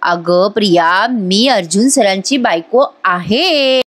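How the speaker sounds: wife calmly putting the rival in her place; calm and sure. Acted. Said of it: "तिच्याकडे बघून हसते आणि म्हणते".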